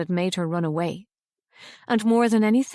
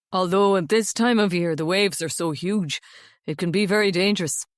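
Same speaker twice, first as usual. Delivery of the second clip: put-on young Irishman. A narrator's reading. Rory voiced in story.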